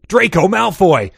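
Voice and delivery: hammed-up dramatic shout; shouted reveal, slow and high; mock shouted reveal. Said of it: "shouted a voice".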